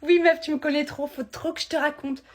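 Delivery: high, loud, giddy with news; super happy. Acted. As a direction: burst out with your big news. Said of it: "Tu m'as l'air super contente". (super contente, surexcitée)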